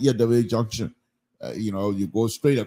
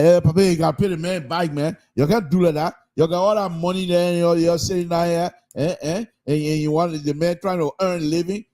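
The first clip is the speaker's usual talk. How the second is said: scolding witness; 5 semitones higher than usual. Retold or imitated.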